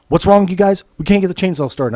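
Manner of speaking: loud, exasperated yell at the guys; exasperated shout. Retold or imitated. Shouting at the crew who can't start the chainsaws. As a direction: call out loud and fed up.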